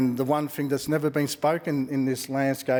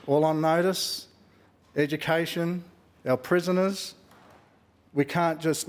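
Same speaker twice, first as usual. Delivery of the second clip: raised, emphatic political speech; politician; 3 semitones higher than usual. Real, not acted. Politician putting ministers on notice.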